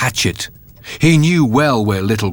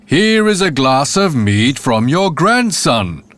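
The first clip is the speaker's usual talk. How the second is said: bawled out; 3 semitones higher than usual. Acted. Landlord bawling at the silent grandmother, slow bellow. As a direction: bellow it slowly to a deaf ear. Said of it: "Again and again he bawled it out".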